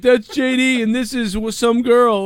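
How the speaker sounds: high narrating chirp; mock Tommy. Tommy narrating his video, high chirpy mimic. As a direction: introduce them like a vlog host. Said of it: "He's like".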